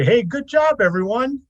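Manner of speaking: rally the team happily; cheery praise. Acted. PC cheers crew.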